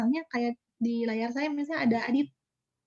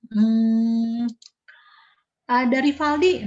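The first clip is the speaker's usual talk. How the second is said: calling out; 6 dB louder, much slower than usual. Real, not acted. Calling a student on screen.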